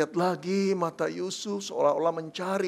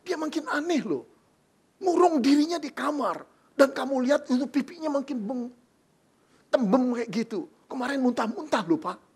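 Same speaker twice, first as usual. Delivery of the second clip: gossipy mother; 4 semitones higher than usual. Acted. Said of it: "lalu berkata".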